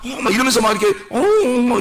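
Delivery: put-on nasal "oh" of false humility; mock nasal meekness. Preacher mimicking people who fake meekness, mock nasal voice. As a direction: lightly imitate someone acting humble through the nose. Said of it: "막 이렇게 콧소리 내고".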